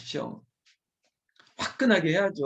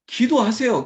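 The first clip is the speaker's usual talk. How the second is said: higher, louder command to pray; forceful exhortation; 5 semitones higher, 7 dB louder than usual. Real, not acted. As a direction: press them hard to pray. Pastor exhorts congregation.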